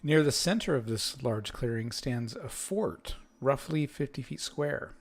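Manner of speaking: measured scene-setting read-aloud; game master narration. Acted. Game master describing a fort to the players, narrating.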